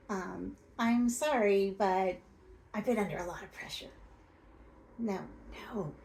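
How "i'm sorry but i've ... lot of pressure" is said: a loud "I'm sorry", then "but I've been under a lot of pressure" rushed; defensive bad apology. Shown as a demonstration. Coach mocks a bad apology to a hurt partner, defensive and rushed. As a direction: brush the apology aside with a quick excuse. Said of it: "Nothing derails an apology faster than a but".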